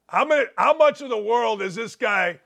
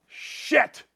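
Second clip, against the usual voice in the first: whispered curse; 4 semitones higher, 3 dB quieter than usual. Real, not acted.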